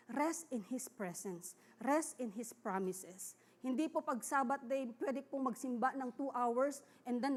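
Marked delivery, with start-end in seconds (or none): 0.1-1.6 slow, restful. Real, not acted. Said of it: "Sabbath day po is to rest". 1.8-3.3 slow, restful. Real, not acted. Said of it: "Sabbath day po is to rest".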